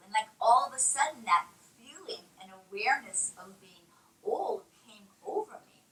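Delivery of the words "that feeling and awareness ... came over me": talking with a hair on her lip; hair in mouth. Real, not acted. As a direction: speak around a hair in the mouth. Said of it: "Sorry, I have a hair in my mouth".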